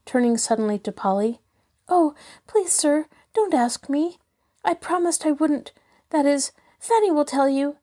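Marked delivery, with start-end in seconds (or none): 1.9-7.8 much higher, pleading in distress; distressed plea. A narrator's reading. Polly begging Mister Shaw not to ask her, distressed and higher. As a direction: beg him not to make her answer. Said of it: "cried Polly, quite red with distress".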